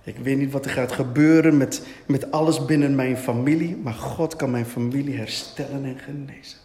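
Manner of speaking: low-pitched, steady prayer of faith; murmured declaration. Shown as a demonstration. Preacher models declaring faith over family, low murmur. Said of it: "begint te mompelen".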